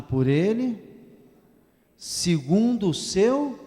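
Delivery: slow, loud unison-style recitation; congregation read-along. Shown as a demonstration. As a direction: read it aloud together, slowly and loud. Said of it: "Vamos ler todos juntos?". (leitura em voz alta, lenta e forte, com a congregação)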